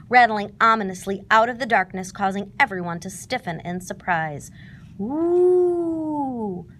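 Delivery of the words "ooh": scared ooh. A narrator's reading. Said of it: "Tigger whispered".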